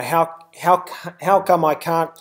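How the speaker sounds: natural New Zealand accent vowels. Real, not acted. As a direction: Kiwi accent slipping out. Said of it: "that was my New Zealand accent".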